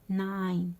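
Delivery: ناين with a gliding to i; ai diphthong. Shown as a demonstration. Teacher points out the vowel, ناين with clear ai. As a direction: sound ناين like English "nine". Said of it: "روماركيو اي".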